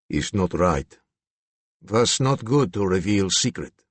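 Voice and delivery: put-on low, harsh Slavic accent, hostile; menacing Slavic accent, low and harsh. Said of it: "the voice dropped to a low, harsh tone".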